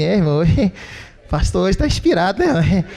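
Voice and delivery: chuckling side remark; mock giggling whisper. Pastor mimics members giggling during a tough sermon, laughing aside. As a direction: giggle to the brother beside you. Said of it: "Fala assim".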